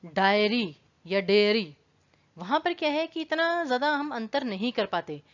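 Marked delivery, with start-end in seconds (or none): 0.0-1.8 डायरी या डेयरी, slowly; slow careful contrast. Shown as a demonstration. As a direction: say डायरी then डेयरी slowly, each vowel clear. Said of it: "um". (डायरी और डेयरी धीरे-धीरे अलग करके)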